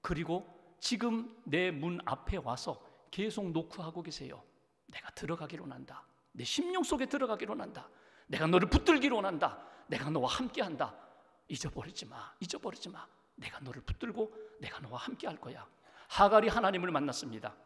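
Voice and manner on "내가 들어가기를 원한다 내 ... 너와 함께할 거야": tender voice of God. Acted. Voicing God's tender call.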